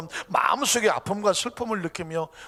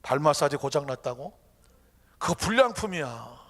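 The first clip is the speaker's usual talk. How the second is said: lightly lowered, patient voice; calm, smiling God; 5 semitones lower than usual. Acted. God answering about the broken foot massager, calm. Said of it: "하나님이 가만히 웃으면서 말합니다".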